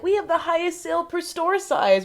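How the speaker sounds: high-pitched pretend bragging; mock boast. Mock boast by tiny stores.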